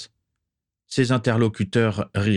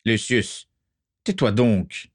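harsh barking commands; 3 semitones higher, slower than usual. Acted. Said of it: "ordonna sèchement Abraxas".

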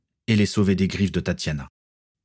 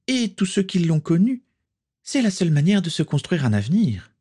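higher-pitched voiced villainesses trading cold threats; rival witch voices; 9 semitones higher than usual. Two old rivals threatening each other, higher voices. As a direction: play the sparring former friends with venom.

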